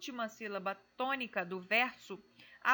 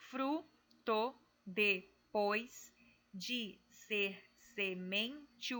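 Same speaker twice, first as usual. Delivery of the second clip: slow syllable scan; much slower than usual. Shown as a demonstration. Teacher to students, slowly scanning the verse's syllables. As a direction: slowly scan fruto, depois de ser semente into poetic syllables. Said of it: "a separação dessas sílabas poéticas se dá da seguinte maneira".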